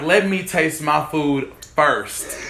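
slow and drawn out; slow, pleading. Retold or imitated. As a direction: plead slowly with a fork thief. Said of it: "I'm like".

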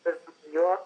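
put-on gangster's girlfriend's New York accent; twenties New York accent. Shown as a demonstration. Showing a film role, twenties New York gangster's girlfriend accent. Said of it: "gangster's girlfriend from the twenties talking like this".

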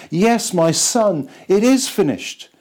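lightly voiced heavenly Father declaring; God the Father speaking. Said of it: "looks down and says".

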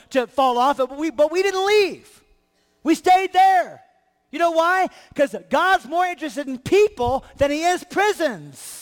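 lively preacher telling Paul's story; Paul excitedly telling the believers; preaching as Paul. Acted. Preacher voicing Paul to the church, building fervour.

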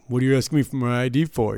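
mock offended gambler demanding why; indignant high roller. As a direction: snap back, insulted at being asked. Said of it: "he was a high enough player".

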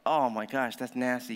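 disgusted onlooker. Retold or imitated. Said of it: "No, it's like".

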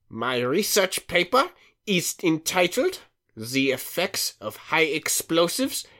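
a light fake German accent; movie villain german accent. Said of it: "he drops his fake German accent".

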